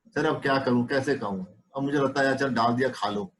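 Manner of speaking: a hesitant man who can't say no; timid patient. Retold or imitated. Timid patient explaining the pickle to the doctor, meekly fading. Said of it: "ये उसकी timidity हो गई".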